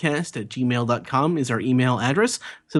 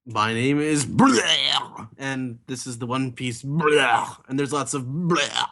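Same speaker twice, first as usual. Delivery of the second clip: vomiting voice; 2 semitones lower than usual. Acted. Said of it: "practice your vomiting".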